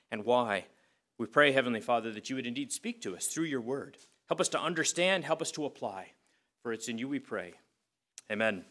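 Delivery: reverent spoken prayer. Acted. Pastor praying for understanding before the sermon, reverent. Let's pray.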